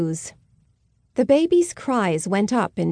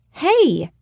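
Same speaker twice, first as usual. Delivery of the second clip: loud, higher call across the park; 7 semitones higher, 4 dB louder than usual. Acted. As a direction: shout to get someone's attention. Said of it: "I heard a voice call out".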